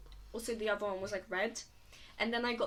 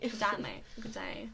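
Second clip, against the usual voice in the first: badly faked Australian accent; 3 dB quieter than usual. Shown as a demonstration. Friend echoing the greeting, really bad Australian accent. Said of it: "that was really bad".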